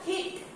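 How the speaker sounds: हिट with a firm, released t; हिट, final t punched; stressed final sound. Shown as a demonstration. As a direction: land hard on the ट ending हिट. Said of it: "ट sound है वहां पे हम एकदम stress apply".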